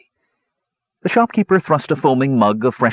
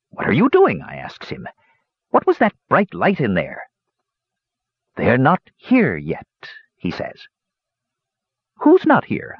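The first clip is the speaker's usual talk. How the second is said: put-on old dwarf yarn-spinner, pitched up; old dwarf hermit, storytelling; 6 semitones higher than usual. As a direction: tell the tale as a rustic old hermit.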